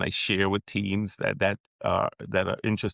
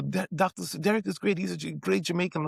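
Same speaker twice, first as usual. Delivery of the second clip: higher, chatty mock voice; imitating a stranger; 9 semitones higher, faster than usual. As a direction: gush about the wrong person lightly. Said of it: "they'll say".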